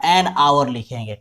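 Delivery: "an hour" said slowly with silent H; "an hour" stressing an, H silent. Shown as a demonstration. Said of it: "क्या लिखेंगे".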